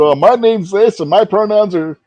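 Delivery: high-pitched mocking quote; put-on high voice, sending her up; imitated woman. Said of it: "She's going".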